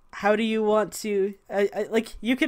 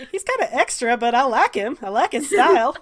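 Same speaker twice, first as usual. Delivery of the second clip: admiring character quip; 3 semitones higher, 3 dB louder than usual. Acted. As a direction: voice an amused admirer, slightly raised. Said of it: "So I was like".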